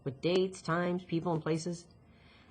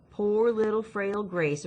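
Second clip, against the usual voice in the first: self-mocking; 4 semitones higher, slower than usual. Mocks herself in acted dialogue.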